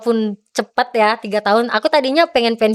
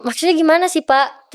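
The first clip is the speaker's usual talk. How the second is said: higher-pitched, puzzled question; retold confusion; 5 semitones higher than usual. Athlete pulled aside, asking the official, confused. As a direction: imitate asking in bewilderment. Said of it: "Saya bingung".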